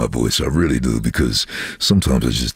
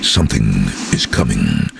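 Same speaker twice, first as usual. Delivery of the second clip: movie trailer voice; 5 semitones lower than usual. Shown as a demonstration. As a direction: intone it like a film trailer, with a pause. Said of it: "And the first line was".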